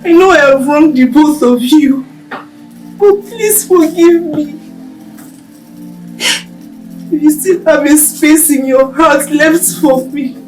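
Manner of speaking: pleading apology. Acted. Wronged friends hear her apologise, tearfully pleading. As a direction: beg forgiveness, close to tears.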